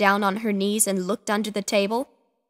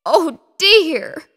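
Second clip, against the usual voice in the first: higher, louder distressed oh dear; upset cry; 5 semitones higher, 7 dB louder than usual. A narrator's reading. Missus Picasso upset at the bathtub, crying out. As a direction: cry out in mild dismay. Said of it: "cried Missus Picasso as a tear".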